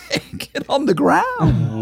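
high, strained arrest order, drawn out; mock police command. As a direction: imitate officers yelling, without real volume. Imagined marshals ordering his arrest.

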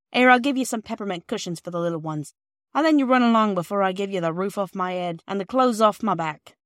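a hint of a motherly old woman offering a gift; kind old lady. Mrs Ransom sends them off.

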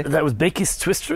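hoarse from a cold; croaky, rough cold voice. Real, not acted. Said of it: "a croaky voice like mine right now".

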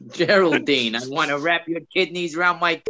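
broad New York accent, lightly put on; a hint of a New Yorker. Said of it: "Do I get more for doing the accent?".

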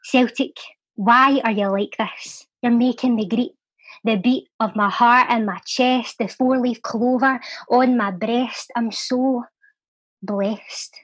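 measured spoken-word poem with long pauses; poem recital. Acted. Podcast guest reciting his Celtic poem, heartfelt spoken word.

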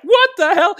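loud, high cry of disbelief; sudden high yelp of disbelief; shocked outburst. Retold or imitated. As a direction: blurt it out as if stunned by the twist. Shocked reaction to arrest news.

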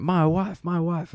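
light, high Borat-style "my wife"; a hint of Borat saying "My wife"; Borat impression. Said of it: "the Borat thing".

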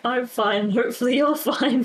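reassuring someone, not quite convincingly; wobbly reassurance. Acted. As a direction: put on a brave but wobbly smile. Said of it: "it's very wobbly".

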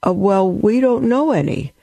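put-on sheepish kids admitting it; children answering. Poor Indian children answering their teacher: mild childlike voice. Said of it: "children answer in the story".

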